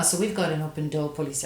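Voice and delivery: quick, light attempt at an American accent; a half-hearted American accent, said quickly. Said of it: "I can't do an American accent".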